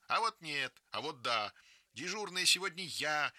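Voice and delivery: put-on girl angrily claiming her duty; cross retort. A narrator's reading. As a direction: snap back at a rival. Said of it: "сердится Галя".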